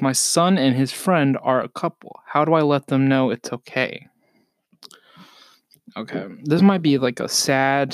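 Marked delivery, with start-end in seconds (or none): 0.0-4.1 reading aloud. Shown as a demonstration. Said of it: "It says".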